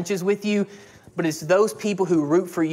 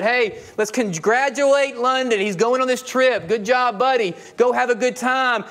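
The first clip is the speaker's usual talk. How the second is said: mock intercom announcement; 4 semitones higher than usual. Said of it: "somebody got on the intercom and said".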